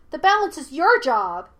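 put-on high, loud childlike scolding; scolding monkey spirit. A narrator's reading. Monkey spirit lectures Aang, high and loud. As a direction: throw the blame loudly.

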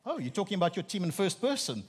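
high, building to loud teasing disbelief; mock incredulous. Preacher ribbing Liverpool fans about their team, mock incredulous. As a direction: tease them with rising, exaggerated incredulity.

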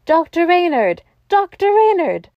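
high call, climbing on the repeat. A narrator's reading. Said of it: "calling out".

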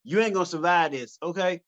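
mock gangster threat, half laughing; tough gangster. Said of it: "I look more like I should be saying".

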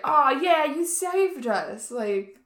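high, loud, drawn-out fanboy gushing; gushing excitement. Retold or imitated. Playing Grover thanking his rescuer, gushing excitement. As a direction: stretch the words out, high and thrilled.

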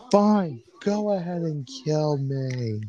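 high, defeated resignation; resigned. Acted. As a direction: sigh it out, giving up. Resigned captive.

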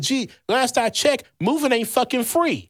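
retold sarcastic comeback; sarcastic jab. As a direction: drag it out sarcastically. His sarcastic retort, retold.

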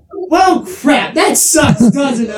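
high-pitched retold exclamation; mock dismay. Acting out the girl's reply, mock dismayed. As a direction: imitate her reaction, pitched well up.

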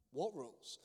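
softly cheeky question; quiet, teasing retort; cheeky smile. Retold or imitated. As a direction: ask it with feigned innocence and a smile. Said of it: "smiled at her quite cheekily and said".

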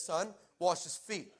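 slow, measured divine command; drawn-out, weighty God voice; holy pressure. Retold or imitated. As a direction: press gently but firmly, like God insisting. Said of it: "the holy pressure of his voice".

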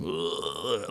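low, soft groaning "ugh"; drawn-out quiet zombie-like groan. Retold or imitated. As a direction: groan like someone trudging covered in slime. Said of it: "had to walk around going".

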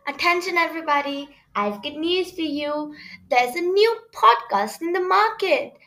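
lively announcer read, asking and answering; bouncy advert delivery; podcast promo. Acted. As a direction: announce it with big emphasis on key words.

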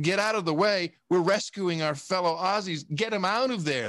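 acted rescue order, pitched high; mock urgent command. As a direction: order them aside like an imagined rescuer. Acts out Aussies storming to rescue.

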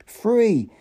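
exultant shout of freedom. A narrator's reading. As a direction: cry it out in triumph. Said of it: "the savage shouted".

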